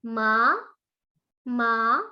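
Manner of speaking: "ma" rising upward; second tone. Shown as a demonstration. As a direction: lift "ma" like a question. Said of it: "untuk nada kedua".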